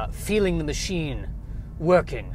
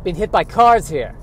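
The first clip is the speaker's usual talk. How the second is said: put-on kvetch it like an old Jewish uncle; Yiddish-accented squirrel. Squirrel character on dating.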